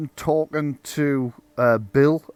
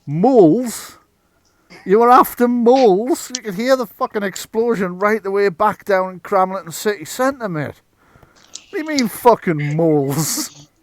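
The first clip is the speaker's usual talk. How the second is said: higher, louder, disbelieving police officer; incredulous; 6 semitones higher, 4 dB louder than usual. Acted. Police officer questioning Bill about the explosion, incredulous. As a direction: repeat it back in sheer disbelief. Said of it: "with a incredulity going".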